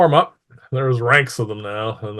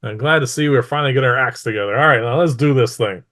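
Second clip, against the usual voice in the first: lightly voiced ruler rallying her troops; pleased mistress; 2 semitones higher, 6 dB louder, faster than usual. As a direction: approve heartily and briskly, a touch of command. Game master voices the pleased mistress.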